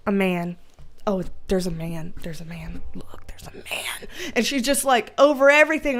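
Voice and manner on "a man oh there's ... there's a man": excited sister. Retold or imitated. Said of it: "Alma's the type that she's like".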